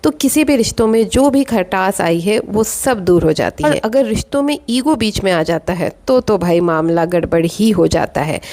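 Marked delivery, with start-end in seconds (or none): none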